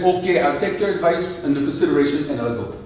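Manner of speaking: lightly voiced African king; measured reply with a hint of African accent. King answering his counselor, African accent.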